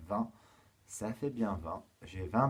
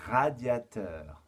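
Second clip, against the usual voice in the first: slow articulation; 4 dB louder, much slower than usual. Shown as a demonstration. Teacher gives pupils today's reference word, slow articulation. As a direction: stretch the word out for young learners.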